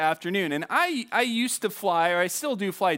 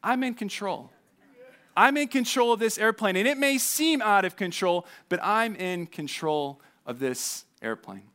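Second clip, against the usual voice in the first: a hint of a calm pilot reassuring; lightly voiced steady pilot, slowing at the end; soothing reassurance; 2 semitones higher than usual. Pilot reminding passengers he is in control, gently reassuring. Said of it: "in that soothing voice".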